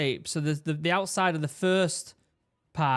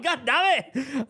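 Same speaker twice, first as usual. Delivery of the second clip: higher, drawn-out mock outburst with a laugh; retold breathless exasperation; 8 semitones higher, slower than usual. Recounting his struggle at the wall, mock breathless exasperation. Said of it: "trying to breathe, I'm struggling".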